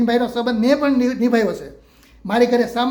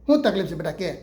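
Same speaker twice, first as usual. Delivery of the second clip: put-on coaxing the child; 2 semitones lower than usual. Teacher comforting a crying girl.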